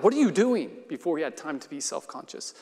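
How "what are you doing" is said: sudden, higher and louder question; blurted out. Acted. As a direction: blurt it before you can think. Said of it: "Robin blurted out".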